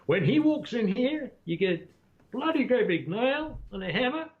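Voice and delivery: put-on high American accent; high, lively American accent. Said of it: "He said".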